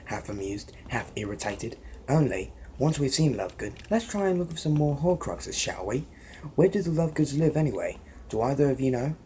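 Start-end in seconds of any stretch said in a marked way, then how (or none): 2.1-9.1 put-on Harry in a light British accent, brisk question; quick British-accented questions to friends; lightly voiced British schoolboy accent. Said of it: "that's my British accent".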